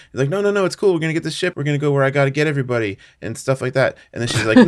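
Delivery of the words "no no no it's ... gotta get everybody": higher, hurried retold pitch; hasty reassurance. Covid talking his pirate buddy into the plan, hasty reassurance. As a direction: talk them round fast.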